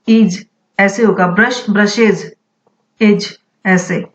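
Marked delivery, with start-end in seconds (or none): 1.3-2.3 ब्रशेज said brush-iz, ending iz; iz plural ending. Shown as a demonstration. Teacher models plurals for students, iz ending clear. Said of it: "इसका pronunciation जो है वो आईजे".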